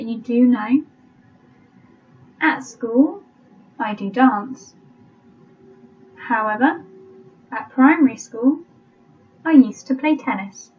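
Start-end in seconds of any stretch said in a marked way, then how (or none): 2.4-10.7 slow, spaced-out dictation reading; measured teacher dictating to a class. Shown as a demonstration. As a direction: read it out slowly with long pauses between phrases. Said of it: "I'll read it slowly".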